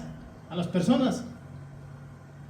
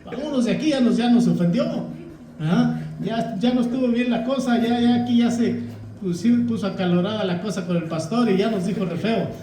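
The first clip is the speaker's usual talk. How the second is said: laughing offended churchgoers; 3 semitones higher than usual. Retold or imitated. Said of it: "harían si".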